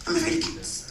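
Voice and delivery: high, soft fearful voice; mock a timid cat-fearer up high; mock high, hushed fear; scared listener. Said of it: "You're like".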